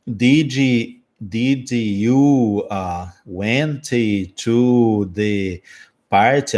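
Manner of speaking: hesitant, stumbling did you went to the party; halting broken English. Retold or imitated. Learner stammering broken English to a friend. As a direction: struggle through the question. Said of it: "de modo muito sofrido".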